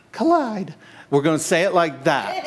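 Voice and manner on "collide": Collide punched out high, from the gut; guttural deep-down shout. Shown as a demonstration. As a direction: throw out "Collide" as one hard, high gut-punch word. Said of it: "we're gonna say it like that guttural, like, deep, deep down".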